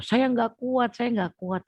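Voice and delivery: high anguished cry, voice pushed up; screaming in despair. Retold or imitated. Alone in her room pleading with God, high despairing cry. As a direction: sob out that you can't go on. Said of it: "Itu yang menjerit-jerit gitu".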